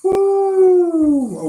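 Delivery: high, loud shouts of disbelief at the near goal; excited shout. Real, not acted. Streamer watching the match, shouting as a header nearly scores. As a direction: yell it out like the ball nearly went in.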